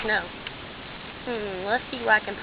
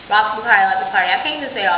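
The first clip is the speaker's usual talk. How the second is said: talking with chocolate in mouth; words round a mouthful of chocolate; mouth full; 5 dB louder, faster than usual. Real, not acted. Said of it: "I got chocolate in my mouth".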